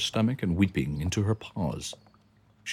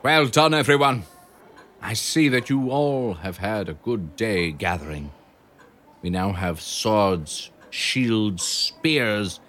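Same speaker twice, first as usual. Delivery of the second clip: rallying hamster; 2 semitones higher, slower than usual. Acted. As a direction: cheer the mice on like a commander. Harry addresses mice army.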